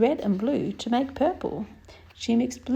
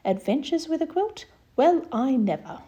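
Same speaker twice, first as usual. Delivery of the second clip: surprised; 3 semitones higher than usual. Acted. Mum puzzled by quilt talk.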